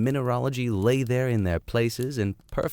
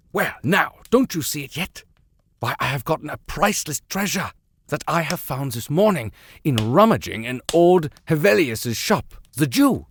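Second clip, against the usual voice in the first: put-on higher, gleeful old German uncle; German accent; 6 semitones higher than usual. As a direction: boast like a German collector with a treasure. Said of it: "German accent".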